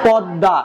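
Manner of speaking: পদ্মা said as "podda", the m dropped and the d doubled; spoken pronunciation. Shown as a demonstration. Teacher shows students how পদ্মা is really said, as "podda". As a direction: say পদ্মা with a long doubled d and no m sound. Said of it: "কিন্তু উচ্চারণটা কি হবে".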